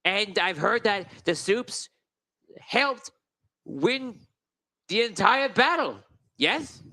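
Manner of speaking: slow, high, pompous nobleman; grandly introducing himself, a pompous gnome lord. Acted. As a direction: greet them like a self-important lord. GM voices Lord Wheaterton.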